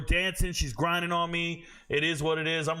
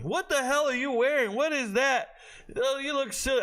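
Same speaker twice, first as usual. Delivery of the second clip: higher voice of teasing classmates; mocking classmates; 7 semitones higher than usual. Classmates mocking his vest, teasing. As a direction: jeer like high school kids. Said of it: "everybody makes fun of me".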